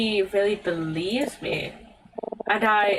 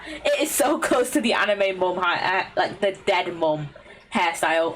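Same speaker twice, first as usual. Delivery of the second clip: laughing; 3 semitones lower than usual. Real, not acted. Joking about the character's hair.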